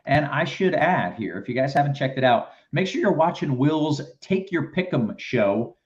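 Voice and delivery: slightly stumbling show plug, uneven pace; rough live ad read with restarts; choppy promo read. Real, not acted. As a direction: read the promo a bit roughly, tripping over phrases. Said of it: "was pretty choppy, pretty rough".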